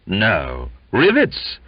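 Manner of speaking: can't believe his ears; astonished exclaim. Acted.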